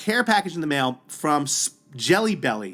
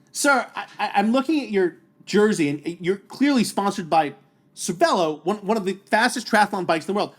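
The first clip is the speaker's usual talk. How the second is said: higher-pitched mock exasperation; losing it; 4 semitones higher than usual. First-timer setting a sponsored rival straight, comic exasperation. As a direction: build from measured politeness to a high, incredulous rant. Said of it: "I just lost it".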